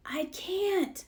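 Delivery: small, soft whispered reply. A narrator's reading. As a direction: whisper it, ashamed to admit it. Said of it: "whispered Franklin".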